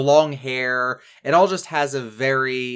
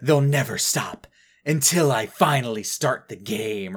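lightly hammed-up melodramatic quote; mock melodrama. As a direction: imitate an overly dramatic cartoon hero. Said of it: "super overly melodramatic".

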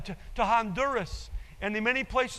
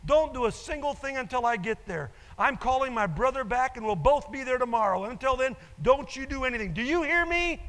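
mock scolding scream; 3 semitones higher than usual. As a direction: scold like an exasperated grown child. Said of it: "She screams at her dad".

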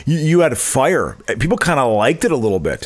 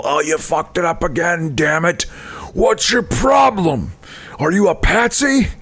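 angry coach yelling; 5 semitones higher, slower than usual. Retold or imitated. Coach yelling at fumbling players.

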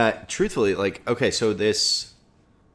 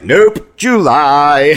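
mock deadpan; 6 semitones higher, 10 dB louder, much slower than usual. Mocking the weather turning hot again.

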